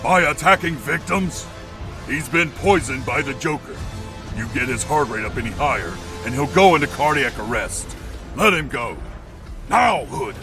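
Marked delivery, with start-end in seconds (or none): 0.0-3.8 raised, urgent objection; indignant protest. Acted. Arguing against the interrogation. 8.4-10.4 raised, forceful order; stern command. Acted. Ordering attacker to release victim.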